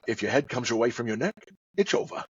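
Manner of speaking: soft, quick Scottish slur; murmured Scottish star with slushy s; every s slurred to sh; Sean Connery. Acted. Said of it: "my impressions of Sean Connery".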